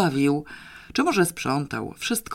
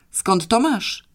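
higher, insistent demand; stubborn repeated question; 7 semitones higher, 4 dB louder, slower than usual. A narrator's reading. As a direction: press him relentlessly. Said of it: "powtórzył nieustępliwie".

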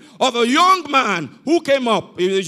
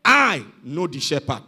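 low, slow, measured reply; old man's answer; 7 semitones lower than usual. Retold or imitated. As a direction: deliver it slowly, pausing before the point. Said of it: "The man said".

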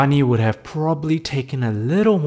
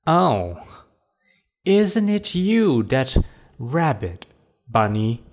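trickster tale voices; 3 semitones higher than usual. Acted.

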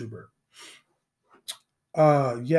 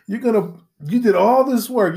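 ordinary talk

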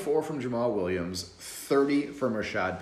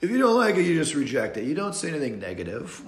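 mocking whiny quote; 7 semitones higher, 10 dB louder than usual. Mimicking the British guy who scolded him in chat, mock whine. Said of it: "this guy comes in saying".

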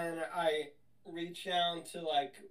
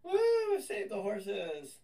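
victory cheer; 5 dB louder, much slower than usual. Acted. Player as Philip cheering, freeing the horses, whooping. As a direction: cheer it like a hero's triumph.

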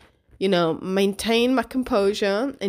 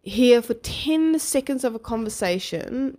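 higher-pitched, indignant retold challenge; affronted ego; 6 semitones higher than usual. Mum to judgmental stranger, affronted ego. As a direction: challenge her, mock-confronting with raised pitch. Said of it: "my ego took over at that moment".

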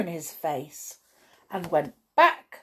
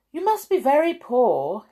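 higher, kindly storybook wizard; kindly remark; 8 semitones higher, 6 dB louder than usual. A narrator's reading. Wizard to poor Mister Mean, remarked kindly. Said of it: "he remarked kindly".

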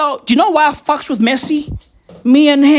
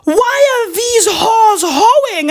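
son's voice; 10 semitones higher, slower than usual. Retold or imitated. A father mimics his young son in a high, laughing voice. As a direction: squeak it out like a startled little boy. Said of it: "my son is like".

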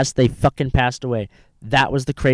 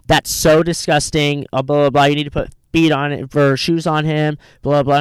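mock lecturing; 2 semitones higher than usual. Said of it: "she goes like this".

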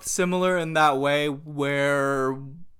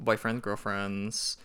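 poised pageant answer; slower than usual. Pretend. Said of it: "Let me give my pageant answers".

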